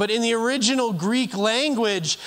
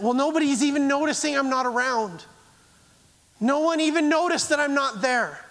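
lightly voiced hurt churchgoer, pitched higher; a hint of wounded complaint, higher up; lonely self-pity; 6 semitones higher than usual. Pastor voicing a forgotten churchgoer, mild hurt complaint.

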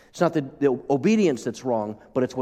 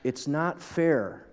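mock whiny child; 3 semitones higher, 4 dB quieter, much slower than usual. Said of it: "we hear kids cry".

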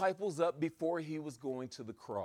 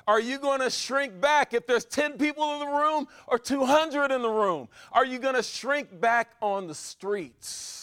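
building preaching refrain. Acted. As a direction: preach it harder each time, then pull back.

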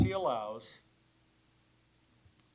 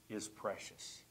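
1 whispered; 5 semitones lower, 11 dB quieter than usual. Real, not acted. Quiet close of the sermon.

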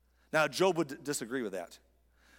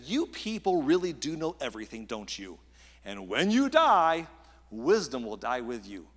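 dripping sarcasm; 3 semitones lower, 4 dB louder than usual. Acted. Preacher voices Job answering his know-it-all friends, dripping with sarcasm. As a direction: swell on the barb, then drop away drily. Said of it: "that's called sarcasm. Job is dripping".

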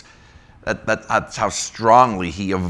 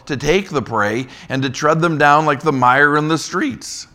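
higher, louder proclamation; scripture reading; 6 semitones higher, 5 dB louder than usual. Acted. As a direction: declare God's woe over them. Reads Isaiah chapter ten.

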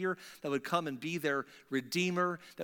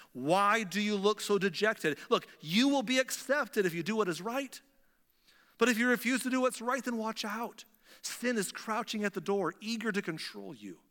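God pleading with Cain; 5 semitones higher than usual. Pretend. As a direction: urge him, voice lifted higher. God's warning to Cain, raised.

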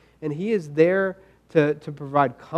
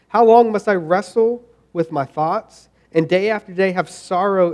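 earnest, measured psalm reading, a touch raised; scripture reading. Acted. Pastor reading Psalm thirteen to the congregation, earnest reading. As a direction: read the lament like a plea, then settle into trust.

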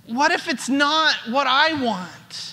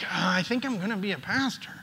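quick, soft, unsure mumble; half-hearted mumble; 6 semitones lower, 8 dB quieter, much faster than usual. Retold or imitated. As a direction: shrug it off under your breath. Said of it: "My life and my relation was much more like".

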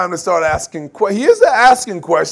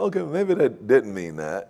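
sheepish second thought; 9 semitones lower, 7 dB quieter than usual. Retold or imitated. Imitating second reading.

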